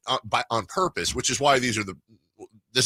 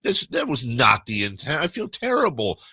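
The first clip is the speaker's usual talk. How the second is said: pleading apology; 6 semitones higher than usual. Retold or imitated. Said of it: "I'm like".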